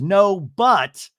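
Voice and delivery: ready to defend. Retold or imitated. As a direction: launch in as if about to argue back. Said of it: "about to defend herself".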